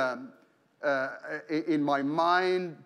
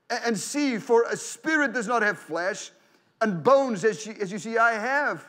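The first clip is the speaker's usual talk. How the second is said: raised preaching voice, pressing the scripture home; preaching at full force; 2 semitones higher than usual. Acted. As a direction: read the gospel like a sermon climax.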